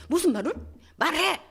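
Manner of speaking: husband with a knife demands his wife talk, loud; retold demand. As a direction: bark it at her.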